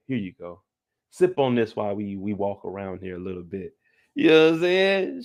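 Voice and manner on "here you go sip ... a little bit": low, hushed smooth-brother voice; smooth talker. Retold or imitated. Reed offers her wine to sip, smooth and hushed. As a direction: ease it out softly. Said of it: "Reed is a smooth brother".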